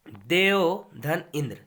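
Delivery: slow down on देव धन इंद्र so students follow; देव धन इंद्र said slowly, word by word; slow careful repeat. Shown as a demonstration. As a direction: spell out देव धन इंद्र slowly, each part clear.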